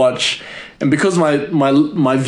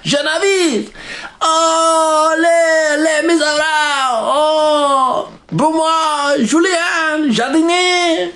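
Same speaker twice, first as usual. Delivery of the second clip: much higher, hammed-up fake French accent; mock French; slower than usual. Vlogger jokes the granddaughter is French, hammed-up mock French accent. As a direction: babble fake French like a cartoon. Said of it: "She can be French".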